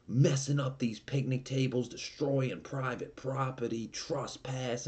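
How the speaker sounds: mock New York cop listing offences, pitched high; high-voiced, accusing New York accent impression. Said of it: "like, in this New York accent".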